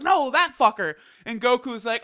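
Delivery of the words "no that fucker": high, louder indignant snap; King Kai recognising the villain, mock indignant; mock angry King Kai. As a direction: spit the insult like an outraged little god. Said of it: "He's like".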